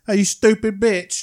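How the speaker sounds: hammed-up British insult; British accent. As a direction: bark it like a cartoon Londoner. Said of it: "Is that British?".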